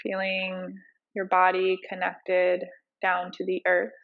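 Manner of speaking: unhurried meditation teacher, leaving space between cues; guided meditation. Acted. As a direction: ease them into breath awareness, phrase by phrase.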